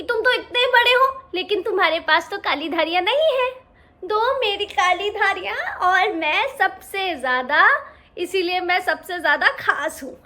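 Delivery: a smug little cub showing off; boastful lion cub. Acted. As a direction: crow about his stripes.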